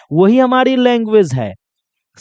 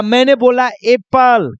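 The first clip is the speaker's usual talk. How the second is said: slow demo. Shown as a demonstration. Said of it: "मैं बोल कर दिखा रहा हूं".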